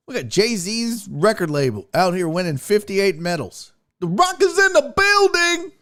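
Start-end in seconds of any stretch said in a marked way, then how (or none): 4.0-5.7 1 mock announcer. Announcing Russia joke.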